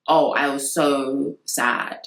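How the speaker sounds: slow, flat monotone with no excitement at all; a lightly mimicked deadpan celebrity; emotionless Kim Kardashian. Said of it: "there's absolutely no emotion".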